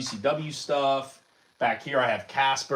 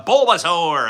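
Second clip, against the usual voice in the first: high, loud, drawn-out creature cry; bad Bulbasaur imitation; 5 semitones higher, 6 dB louder, slower than usual. Streamer badly imitating a favorite Pokemon, creature voice. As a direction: stretch the name out like the creature calling. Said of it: "That's not how he sounds".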